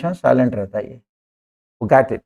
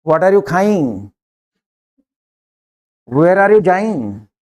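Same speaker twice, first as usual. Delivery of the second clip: slow, deliberate Hinglish question; slow mixed English; much slower than usual. Shown as a demonstration. Teacher demonstrating Hinglish to students, slow and deliberate. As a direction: spell out each word slowly. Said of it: "ऐसी English बोलो".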